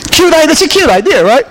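very high, sugary cute idea; mock cute. Preacher teasing the balloon plan, high mock cute. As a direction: squeal it like something adorable.

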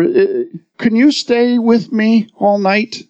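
a hint of a scared little boy asking; little boy's trembling voice. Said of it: "In his little trembling voice".

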